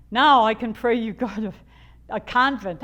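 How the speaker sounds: lightly voiced gleeful coworker; mock Lena May. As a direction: tease like she won again. Lena May's teasing retort quoted.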